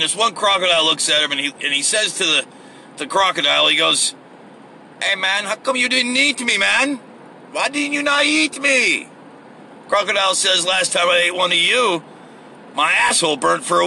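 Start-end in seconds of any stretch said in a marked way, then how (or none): 5.0-9.1 high-pitched mock Hispanic accent; pretend Hispanic accent. Escaped prisoner questioning the crocodile in a joke, pretend Hispanic accent. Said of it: "pretend Hispanic accent thing".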